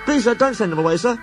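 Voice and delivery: high, breathless pleading little engine; Percy pleading with the Fat Controller; nervous pleading. Acted. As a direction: beg earnestly, tumbling words.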